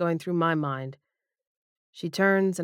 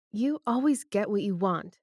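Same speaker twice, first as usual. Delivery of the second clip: firm; 4 semitones higher than usual. Acted. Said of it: "Debbie says firmly".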